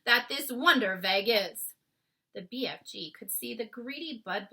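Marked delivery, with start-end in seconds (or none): 0.0-1.7 coaxing BFG voice. A narrator's reading.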